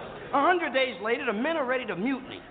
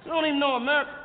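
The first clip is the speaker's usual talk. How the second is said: excited urging; 6 semitones higher than usual. Retold or imitated. Chris urges crew excitedly.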